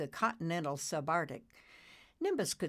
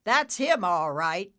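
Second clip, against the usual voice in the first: said loudly; 3 semitones higher, 9 dB louder than usual. Acted. Taz confirming Nimbus's father, loud. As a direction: call it out loudly. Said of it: "Taz said loudly".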